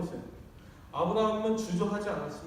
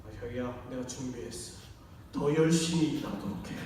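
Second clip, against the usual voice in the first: mock sweet sarcasm; 7 semitones lower than usual. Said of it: "이게 아니라".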